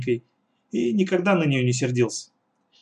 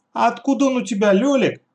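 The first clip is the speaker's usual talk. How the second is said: put-on curious young girl; 9 semitones higher, 4 dB louder than usual. A narrator's reading. Katya asking brother.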